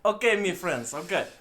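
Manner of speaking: put-on half-hearted Russian accent. Host obliging a co-host's request, shaky attempt at Russian accent. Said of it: "Do a Russian accent".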